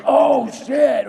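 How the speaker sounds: put-on high, loud burst of kid excitement; thrilled teen outburst. Teen Jason hearing about comics, high excited shout. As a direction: blurt it like a kid discovering treasure. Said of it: "I was like".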